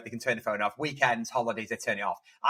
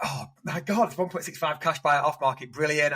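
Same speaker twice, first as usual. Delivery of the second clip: higher-pitched retold delight; retold excitement; 4 semitones higher than usual. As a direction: re-enact being thrilled at an offer. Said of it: "I was like".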